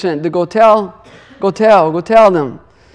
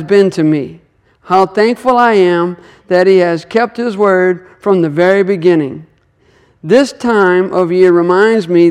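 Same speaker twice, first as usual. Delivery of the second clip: reading a letter aloud. A narrator's reading. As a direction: read each phrase out with measured emphasis. Reads a sister's letter aloud.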